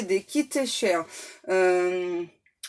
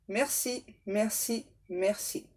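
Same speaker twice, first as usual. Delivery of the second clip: soft thanks; 6 dB quieter, slower than usual. Acted. Prayer thanks.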